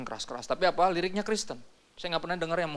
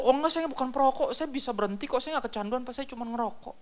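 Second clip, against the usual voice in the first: defensive smoker; 9 semitones higher than usual. Retold or imitated. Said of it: "Jadi kalau ditegur".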